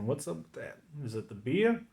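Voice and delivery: slipping into a Southern accent. Real, not acted. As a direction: let the Southern accent creep in. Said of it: "Here comes the Southern accent".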